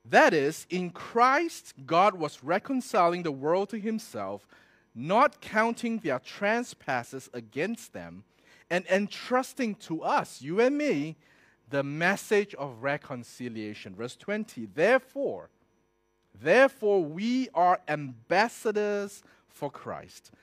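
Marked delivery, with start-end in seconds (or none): 0.0-14.0 loud, measured preacher's reading with long pauses; emphatic scripture reading. Real, not acted. Preacher reading Second Corinthians to his listeners, emphatic proclamation. 14.7-20.3 loud, measured preacher's reading with long pauses; emphatic scripture reading. Real, not acted. Preacher reading Second Corinthians to his listeners, emphatic proclamation.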